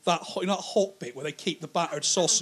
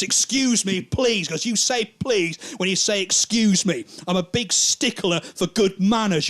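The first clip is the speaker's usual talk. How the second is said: indignant scolding; 3 semitones higher, 3 dB louder than usual. Acted. Policeman grabs and scolds the comic.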